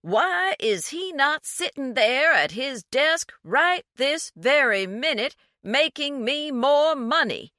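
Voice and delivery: condescending snob over the phone, slow and loud; excruciatingly slow, condescending. A narrator's reading. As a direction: spell it out as if to a fool. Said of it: "James spoke excruciatingly slowly".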